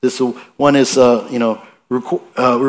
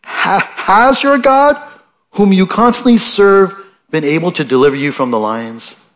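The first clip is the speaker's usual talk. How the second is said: wavering, unsure question, higher at the start; less confident; 6 semitones higher than usual. Shown as a demonstration. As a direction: ask it with shaken confidence. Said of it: "stated a little less confidently".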